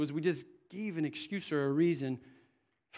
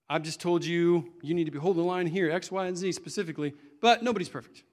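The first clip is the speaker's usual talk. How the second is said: firm, louder instruction, then a raised let-off; preacher undoing himself; 5 dB louder than usual. Shown as a demonstration. Preacher demonstrating a self-undermining sermon, emphatic then excusing. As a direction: lay down the line, then lift the caveat louder. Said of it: "this is what it looks like".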